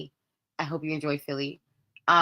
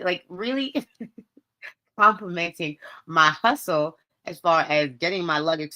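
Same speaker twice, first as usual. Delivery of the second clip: ordinary talk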